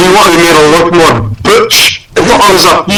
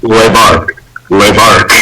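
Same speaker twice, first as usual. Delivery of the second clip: low mock-French "Le bark"; French poodle bark; 8 semitones lower, slower than usual. Owner's French poodle answers with a mock French bark. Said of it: "my French poodle".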